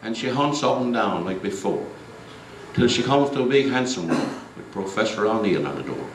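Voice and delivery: lilting rhythmic verse recited to a crowd; storyteller reciting a humorous ballad; comic recitation. Acted. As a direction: roll the rhyming lines out like a party piece. Comic poem recited from memory.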